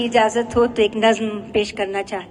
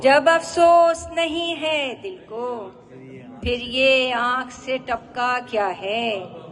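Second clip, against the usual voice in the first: poetry recitation; 2 semitones higher, slower than usual. Acted. Poet repeating a couplet for applauding listeners, lifted poetry recitation. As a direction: declaim the couplet, lofty opening and slow close.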